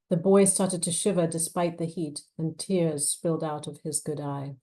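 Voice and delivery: measured, expressive novel reading; story narration. A narrator's reading. Author reading her thriller to an audience, measured narration. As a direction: read the scene aloud with weight. Reads novel excerpt aloud.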